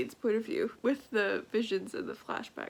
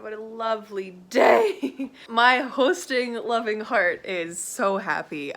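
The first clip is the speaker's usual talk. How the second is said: laughing; 6 dB louder than usual. Real, not acted. Laughing joy.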